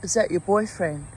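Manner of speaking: yelling. Retold or imitated. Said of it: "I yell out to her".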